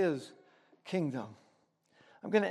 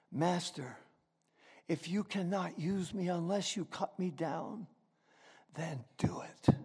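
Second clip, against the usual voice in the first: hushed, much softer surrender; whisper; 5 semitones lower, 10 dB quieter than usual. A narrator's reading. Bamboo yields to the master, hushed and low. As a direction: give in under your breath. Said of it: "And then came a whisper".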